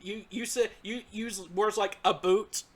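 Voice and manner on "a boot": lightly mocked Canadian "a boot"; imitated Canadian accent. Teasing Nam about words said on the podcast, imitated Canadian accent. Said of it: "your Canadian accent has been coming out".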